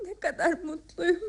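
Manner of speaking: slow and tearful, crying through the words. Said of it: "Niçin ağlıyorsun Miranda".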